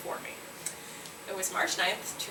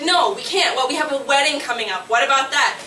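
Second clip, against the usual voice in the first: worried inner voice; 3 semitones higher, 5 dB louder than usual. Retold or imitated. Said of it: "it's like".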